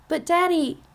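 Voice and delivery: put-on high, pleading child voice; a little girl begging her daddy; young girl's voice. A narrator's reading.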